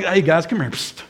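near-whispered, confidential summons; discreet beckoning. Acted. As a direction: call them over on the quiet. Paul beckoning preachers aside discreetly.

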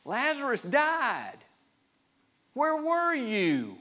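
high, drawn-out lament; wounded, high-pitched reproach; anguished questioning. Acted. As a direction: cry out slowly, questioning why he was absent. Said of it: "they're questioning his concern and his care".

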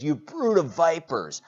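preacher quoting another translation, loud rebuke. Acted. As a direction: call them out, loud and high.

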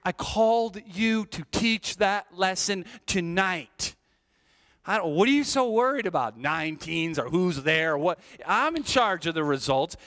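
a hint of a stern God. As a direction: speak as God setting him straight. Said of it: "God hitting me in the head saying".

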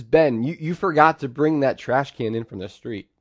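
scolding dad. Retold or imitated. Dad scolds son after work.

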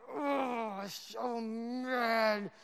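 a whiny, put-on voice for the angry crowd; mock groan of the enraged crowd; mock fury. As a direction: groan it like a sulking mob.

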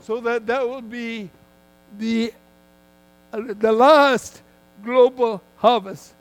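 firm, measured sermon delivery with punched key words; emphatic preaching. Real, not acted. Preacher telling a congregation God moves people so they seek him, emphatic preaching.

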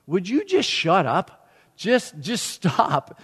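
slow, lightly exasperated inner voice; Holy Spirit/character. Retold or imitated. Holy Spirit in his head hushing his rant, exasperated. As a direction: plead in drawn-out words, mock weariness. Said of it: "Holy Spirit in my head going".

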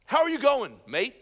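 put-on loud, high-pitched Aussie greeting, amateur accent; attempted Australian accent. Preacher showing how Australians greet someone, hammed-up Australian accent. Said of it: "I wish I could have an Australian accent".

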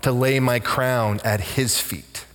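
quivering voice. Retold or imitated. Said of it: "she quivered and said".

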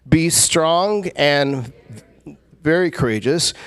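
very slow, weighty reading; broad singsong kids theatre. Shown as a demonstration. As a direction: draw each word out for emphasis. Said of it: "Read it again".

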